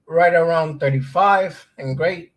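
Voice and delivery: hiccuping mid-sentence; hiccups. Real, not acted. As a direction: talk through the hiccups. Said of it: "now I got the hiccups".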